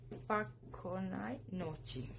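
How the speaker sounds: Spaka Konai Nochi slowly, word by word; pronunciation of Spaka Konai Nochi. Shown as a demonstration. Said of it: "y se pronuncia". (pronunciación pausada de Spaka Konai Nochi)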